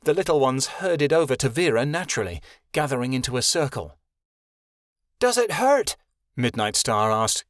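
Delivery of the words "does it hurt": concerned. A narrator's reading.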